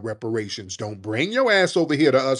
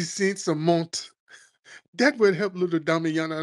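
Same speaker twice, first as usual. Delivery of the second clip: mock charity appeal; 3 semitones higher than usual. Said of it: "the Sally Struthers commercial".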